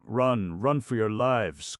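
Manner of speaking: high, loud urgent cry. A narrator's reading. Frenchman to the group, an urgent cry to flee. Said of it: "cried the Frenchman".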